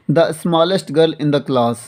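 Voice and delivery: very slow, one word at a time; dictation pace. Shown as a demonstration. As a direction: read the example slowly for writing. Teacher dictating an example sentence. (धीरे-धीरे उदाहरण लिखवाते हुए)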